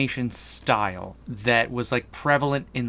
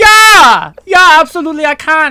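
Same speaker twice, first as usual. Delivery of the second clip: put-on German accent; 16 dB louder than usual. Asked on a call to help describe a movie, answering in a German accent. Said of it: "Let me take my German down".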